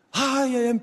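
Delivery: put-on tearful whine of a debtor; mock wailing. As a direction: start a hammed-up wail. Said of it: "forma la llorona".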